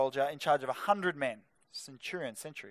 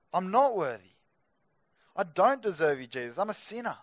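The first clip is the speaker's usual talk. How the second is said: mildly acted humble admission; understated, earnest plea of a sinner; humble confession. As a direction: confess it to Jesus without any boasting. Acting out a humble approach to Jesus.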